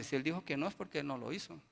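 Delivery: low, soft, calm mother; a hint of a mother shrugging it off; defensive mother. Mother defending her son to the teacher, low and soft. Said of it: "Y la mamá dice".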